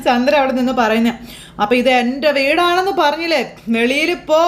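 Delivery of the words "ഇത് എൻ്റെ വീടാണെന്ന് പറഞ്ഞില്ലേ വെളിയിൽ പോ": ghostly boom. Acted. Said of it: "ഭയങ്കര ശബ്ദത്തിൽ".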